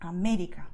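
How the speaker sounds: América with the stress on MÉ; emphasize the accented é in América. Shown as a demonstration. Teacher demonstrating the acento rule, América stressed on MÉ. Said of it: "You stress where you see the acento".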